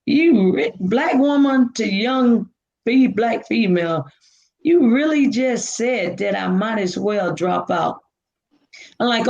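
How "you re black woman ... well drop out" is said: incredulous retort. Retold or imitated. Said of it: "I'm looking at her like".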